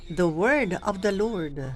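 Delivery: slow, stretched The word of the Lord; drawn out. Shown as a demonstration. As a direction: drag out every word of the phrase. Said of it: "wag niyong habaan dito".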